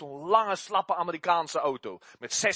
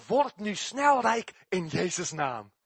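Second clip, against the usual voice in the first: laughing mock slogan; 4 dB louder, slower than usual.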